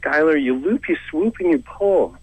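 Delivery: acted fed-up Canadian parent; exasperated parent. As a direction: scold the kid in a hammed-up high voice. Acts parent snapping at Canadian kid.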